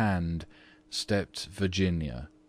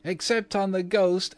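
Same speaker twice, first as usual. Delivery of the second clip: put-on much higher, mischievous child voice; shrieking twins; 13 semitones higher, 4 dB louder than usual. A narrator's reading. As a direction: squeal "ghost" like a cheeky boy. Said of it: "shrieked the twins as they capered about".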